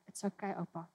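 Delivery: put-on soft, low reassurance to a sick old man; soothing a dying grandfather; gentle reassurance. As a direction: comfort him softly. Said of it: "we're like".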